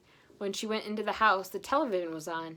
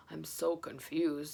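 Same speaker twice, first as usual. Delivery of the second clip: confused; 3 semitones lower, slower than usual. Acted. Santa confused.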